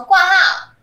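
loud, high shout from outside the door. A narrator's reading. Man outside the clinic shouting to the nurse. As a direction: call out loudly into the clinic.

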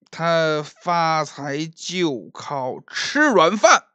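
slow, drawn-out sneering speech; drunk mocking young master. Drunk Liu mocking Qian Jin before the tavern crowd, slow sneer. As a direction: savour the insult like a smug drunk.

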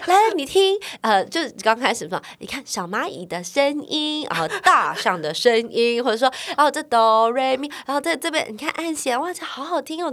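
high, bright-voiced coaxing of a child; coaxing teacher. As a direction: lure a little kid into music.

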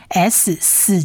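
四 as the sound of English s. Shown as a demonstration. Teacher shows the letter's sound, 四 with plain s. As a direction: give 四 as a hissed s. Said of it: "在发音上是发S四的音".

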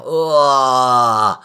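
pained cry. Acted. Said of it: "然后一直惨叫".

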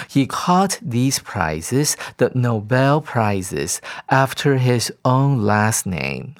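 reads the English passage slowly and clearly; careful classroom read-aloud; slow text reading. Acted.

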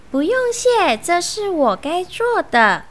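high-pitched little fox answer; hasty modest reply. Acted. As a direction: wave away the thanks eagerly. Fox hastily waves away thanks.

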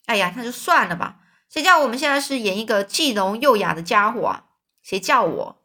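a touch of sarcasm, mildly angry; sarcastic. Acted. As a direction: sneer at their own bad luck, understated. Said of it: "非常挖苦的语调". (公爵用挖苦的语调，略带生气)

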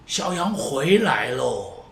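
放慢放软，像呼唤迷途小羊; 慢慢地、温柔地唤回来; 上帝温柔呼唤. Pretend. 上帝呼唤迷途的人. (上帝温柔地呼唤小羊回家)

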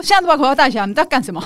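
barking like a drill instructor. Retold or imitated. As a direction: order them like a drill sergeant. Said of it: "教官的口气又来了".

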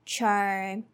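chur with r colored vowel. Shown as a demonstration. Teacher showing the chur ending. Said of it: "pronounced chur".

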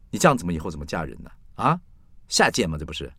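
mildly acted motherly telling-off; scolding mother. Mother scolding daughter over a pregnancy test, mild rebuke. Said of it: "我妈立刻把我叫回家臭骂一顿".

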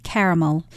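"caramel" as KAIR-uh-mul; three-syllable caramel. Shown as a demonstration. Co-host answers how she says it, "caramel" as KAIR-uh-mul. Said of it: "the natural way for me to say it".

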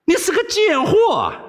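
high, scornful outburst; angry insult. Acted. Wei Xiaobao cursing the princess, angry. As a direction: spit out the insult high and hard.

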